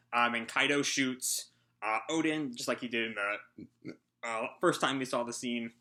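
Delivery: talking while out of breath; breathless, gulping air between words. Real, not acted. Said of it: "I'm so out of breath right now".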